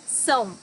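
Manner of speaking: "são" with a nasal ow glide; nasal ending. Shown as a demonstration. Teacher breaking coração into syllables, nasal ão. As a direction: let "são" ring through the nose. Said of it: "the C A O".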